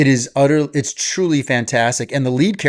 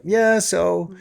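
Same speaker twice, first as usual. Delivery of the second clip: "Yeah, so." pitched higher Canadian; Canadian accent; 6 semitones higher than usual. Retold or imitated. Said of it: "But he says it like this".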